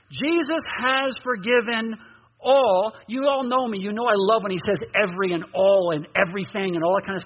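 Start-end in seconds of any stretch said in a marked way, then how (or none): 0.1-2.9 slow, deliberate reading with a pause before all; read more slowly. Shown as a demonstration. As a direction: stretch it out and land on all. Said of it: "Let's read that more slowly".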